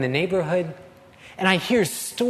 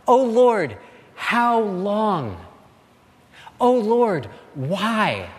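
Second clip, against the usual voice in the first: louder, higher lament; anguished cry; 4 semitones higher, 4 dB louder, much slower than usual. Acted. Habakkuk lamenting to the Lord, loud anguished cry. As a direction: cry it up to heaven. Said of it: "He cries out".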